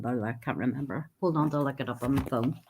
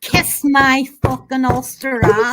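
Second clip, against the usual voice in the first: put-on Northern Irish accent; 7 semitones higher, 10 dB louder than usual. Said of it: "I don't even know what accent that was".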